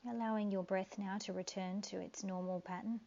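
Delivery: calm guiding voice with long pauses; guided meditation. Acted.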